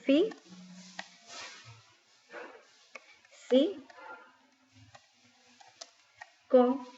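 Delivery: each syllable said alone, long pauses between; sílaba por sílaba. Shown as a demonstration. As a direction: split the word into separate syllables. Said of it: "divido en sílaba". (separando en sílabas)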